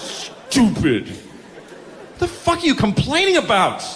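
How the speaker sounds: a cranky, whiny God complaining; high squeaky voice griping at the cash machine; God at the ATM. Retold or imitated. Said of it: "probably just God standing at the A T M".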